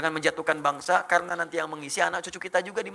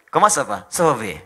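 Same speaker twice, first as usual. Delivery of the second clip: loud, falling mock-French greeting; playful fake French accent; 3 semitones lower, 8 dB louder, slower than usual. Shown as a demonstration. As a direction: greet someone like a French native. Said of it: "kayak orang Prancis".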